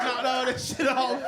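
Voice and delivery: laughing through the words. Real, not acted. Comedian laughing at his own story. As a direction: chuckle as you say it.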